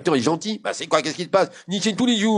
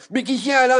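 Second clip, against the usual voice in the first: exasperated; 9 semitones higher, 4 dB louder than usual. Acted. Fed-up boy, fifteenth day.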